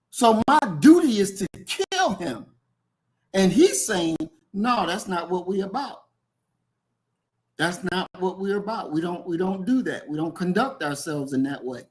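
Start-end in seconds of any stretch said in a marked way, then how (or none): 4.5-11.8 softer, restrained quoted objection; calm refusal. Retold or imitated. Quoting the author who rejects revenge, calm refusal. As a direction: quote a measured refusal, quietly.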